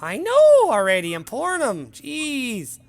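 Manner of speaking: high, loud, slow harried bartender voice; grumpy bartender. Acted. Bartender grumbles back at the barmaid, high and irritated. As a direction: huff it back, fed up.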